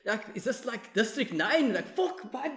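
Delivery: high, mocking voice of a YouTube commenter. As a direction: lightly mimic a sneering viewer. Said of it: "a lot of the comments were like".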